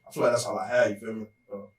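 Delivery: talking around something in mouth; words round a bite of food; mouth full. Real, not acted. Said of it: "something in my mouth crazy".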